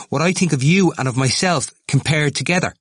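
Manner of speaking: high-pitched, agitated question; worked-up insistence. A narrator's reading. Temple comparing himself with his rival, agitated. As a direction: keep pushing, pitched right up.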